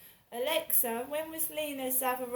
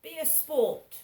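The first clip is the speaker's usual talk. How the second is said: higher, louder mock posh toff; 4 semitones higher, 8 dB louder than usual. Mimicking a posh online creep, mock posh cajoling. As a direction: ham up a plummy upper-class cajoling. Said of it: "Doesn't that sound like a posh person".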